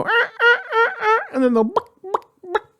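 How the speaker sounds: high, far turkey hen clucks; turkey hen clucking. Shown as a demonstration. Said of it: "some hens that will go".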